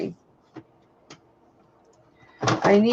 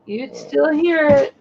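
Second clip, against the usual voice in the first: talking from down under the desk; ducking under a table; 5 semitones higher, slower than usual. Real, not acted. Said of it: "That picked you up really good under there".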